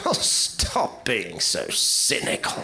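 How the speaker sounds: slow, sing-song reproach, rising high; hammed-up scolding; mock scolding host. Comic playing a host telling guests to eat. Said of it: "mocking the cynic accusation".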